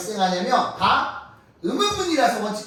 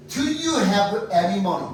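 very slow, each word of Do you have any money? spaced out; deliberate teacher model of the English line; slow demo; much slower than usual. Shown as a demonstration. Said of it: "이것도 맞고".

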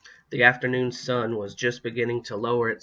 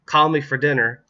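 loud, higher call over the shoulder; raised, carrying voice; calling back; 4 semitones higher, 7 dB louder than usual. A narrator's reading. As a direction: call out to someone left behind. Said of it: "Chris called back".

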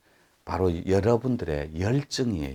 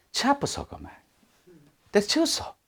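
mock exasperation; 13 semitones higher than usual. Acted nagging wife.

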